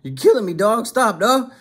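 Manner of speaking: mock a man begging for his life; retold screaming. Imitating Termite begging his attacker to stop, half-voiced scream. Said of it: "they actually heard Termite screaming".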